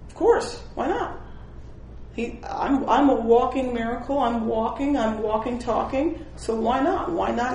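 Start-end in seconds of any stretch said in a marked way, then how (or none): 0.1-1.2 high, bright emphatic "Of course". Real, not acted. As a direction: toss it off as obvious. Emphatic rhetorical answer.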